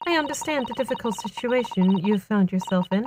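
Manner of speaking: measured, grave detective voice; stern detective read. Acted. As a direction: deliver it like a solemn detective. Voicing Sholmes character dialogue.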